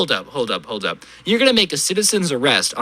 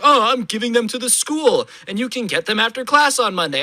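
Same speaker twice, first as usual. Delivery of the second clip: mock prim lady; 5 semitones higher than usual. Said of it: "was like".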